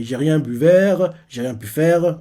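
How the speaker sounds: slow, garbled through tears; tearful. Retold or imitated. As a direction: sob the words out. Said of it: "Il dit ça en larmes". (dit en larmes, mots écorchés)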